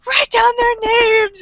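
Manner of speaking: high-pitched mock desperate plea; hammed-up wailing order; imitated crying out. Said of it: "he's crying to Mikami".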